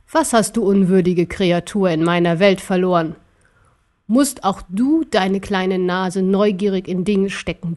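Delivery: lightly voiced emperor talking down; herablassender Kaiser. (leicht gespielter, herablassender Kaiser)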